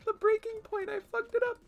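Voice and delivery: loud high frustrated cry; frustrated yell. Real, not acted. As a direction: yell at the mistake. Breaking the fossil.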